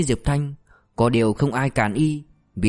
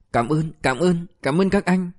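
tearful thanks; 6 semitones higher, slower than usual. A narrator's reading. Suspect thanks them, bowing.

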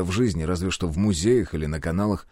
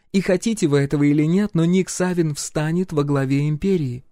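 higher, firmer royal insistence; empress voice; 7 semitones higher than usual. A narrator's reading. Empress insists hero becomes chief advisor. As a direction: press her case unyielding.

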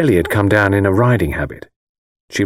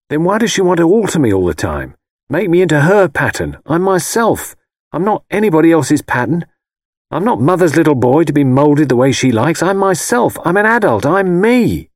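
higher, louder, insistent protest; indignant protest; 8 semitones higher, 4 dB louder than usual. A narrator's reading. Husband protesting to his wife about his mother, indignant. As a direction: push back hard against being moulded.

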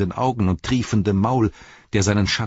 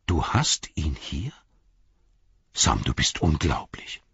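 slow, hushed wonder, sinking lower; astonished; 5 semitones lower than usual. A narrator's reading. Frodo to Sam who saved the Ring, astonished. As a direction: marvel at it slowly, almost to yourself. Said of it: "staunte Frodo".

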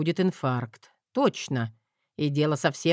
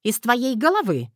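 higher mother's voice, a little louder; teasing mother; 8 semitones higher, 4 dB louder than usual. A narrator's reading. Mother asking her son about the axe, higher voice. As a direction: ask dryly as mum.

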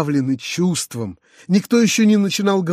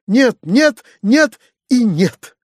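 insistent cry; 6 semitones higher, 5 dB louder, slower than usual. A narrator's reading. Tatyana insisting on the gift.

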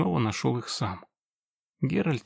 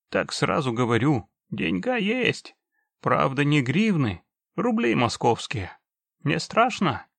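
put-on very old man; 3 semitones higher than usual. Old orc grandpa speaking.

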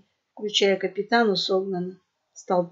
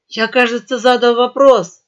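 sharp, louder squeal; squealing yell; 9 dB louder than usual. A narrator's reading. Boar pirate repeating his question to the merchant, squealing. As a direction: snap the question out shrilly. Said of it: "взвизгнул хрякер".

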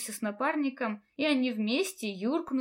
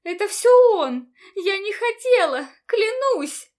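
much higher and louder, frantic; panicked accusation; 9 semitones higher, 11 dB louder than usual. A narrator's reading. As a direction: shriek the blame in terror. Girl blames teacher in panic.

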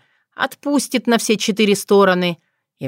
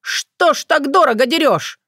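outraged haggling; 8 semitones higher than usual. Acted. Tsar outraged at price.

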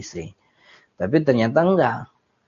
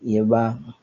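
polite, good-natured reply; 3 semitones lower than usual. Acted. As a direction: answer meekly and respectfully. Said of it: "Biasanya ngomong yang baik".

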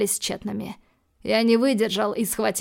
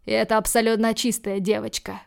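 plain reading voice

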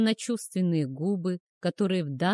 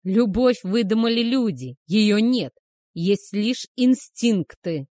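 loud, slow furious shout; angry shout; 2 semitones higher, 6 dB louder than usual. Acted. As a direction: hammer each word, raging. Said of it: "рявкнул он".

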